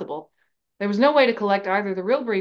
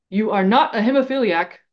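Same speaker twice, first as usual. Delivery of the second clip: louder, exasperated professor retort; growled; 2 semitones higher, 6 dB louder than usual. A narrator's reading. Professor contradicting the bleeding student, growled in irritation. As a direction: contradict him with heated impatience. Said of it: "Jackson growled".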